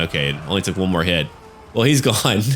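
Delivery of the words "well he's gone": laughing through the words. Real, not acted. Player laughing as the enemy general falls. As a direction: chuckle it out as he drops.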